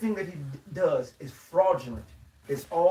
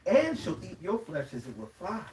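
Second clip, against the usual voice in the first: scripture reading. Acted. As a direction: read the verse out solemnly to the brothers. Reads scripture aloud to group.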